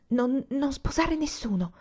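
pleading slowly. A narrator's reading. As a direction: draw it out as an urgent plea. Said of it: "la supplicò ancora".

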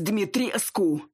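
high, slow shouted name; angry shout. Acted. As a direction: drag her name out in fury. Wolf chief yells at her. (гневный окрик)

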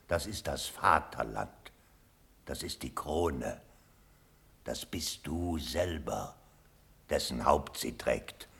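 hushed intense plea. Acted. Old colonel pleads with Elector.

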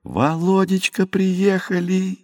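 high, slow, drawn-out joyful wail; a maid howling the good news across the house; wailing cry. A narrator's reading. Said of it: "завопила Наталья".

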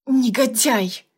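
slow, hissed insult. A narrator's reading. Heroine hisses at her boss, slow and venomous. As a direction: spit the word out through your teeth. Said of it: "прошипела".

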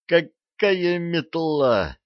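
slow, pained protest; groan. A narrator's reading. Archie groans while rolling on the floor from a blow. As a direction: drag it out in pain. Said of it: "простонал Арчи".

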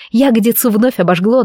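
plain reading voice

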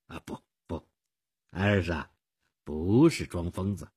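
gently calm her objection; reassuring. Acted. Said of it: "我安慰她说".

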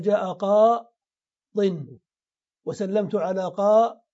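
قاض held on the long aa, then "-din"; tanwin without yā'. Shown as a demonstration. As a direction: draw out قاض and end it in a nasal "-in". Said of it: "ستحذف الياء وتنون".

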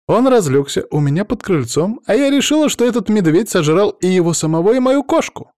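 high, loud, breathless retelling of a fright; a flustered woman spilling her scare; agitated young woman. Acted. Natasha tells Raf's father about the bear: high, agitated voice.

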